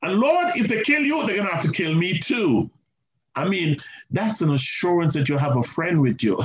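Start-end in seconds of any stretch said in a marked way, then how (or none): 0.0-2.7 high, bold pledge that settles at the end; Peter's bold vow. Retold or imitated. Peter swearing to die with Jesus, high bold voice. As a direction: boast of loyalty to the end. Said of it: "So Peter is saying".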